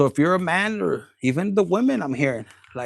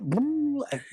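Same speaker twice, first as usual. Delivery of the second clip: short high laugh; amused high chuckle; giggle; 9 semitones higher, 3 dB quieter than usual. Real, not acted. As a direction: break into a brief, high giggle. Laughs after acting out the man.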